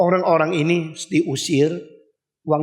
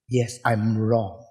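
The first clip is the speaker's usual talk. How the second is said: meek admission; 9 semitones lower, 4 dB quieter, much slower than usual. Retold or imitated. Voicing a rebuked person admitting fault.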